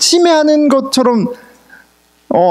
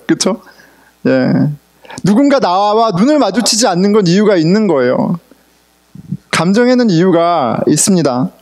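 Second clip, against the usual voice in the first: ordinary delivery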